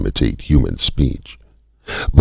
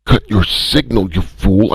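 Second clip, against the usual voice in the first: higher angry shout; strident yell; 10 semitones higher than usual. A narrator's reading. First voice yelling at Calhoun, strident. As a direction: snarl the order. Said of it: "interrupted stridently".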